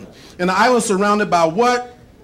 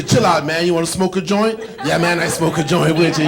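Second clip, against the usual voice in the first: chill stoner; 4 semitones lower than usual. Acted. Stoner voice in road rage bit.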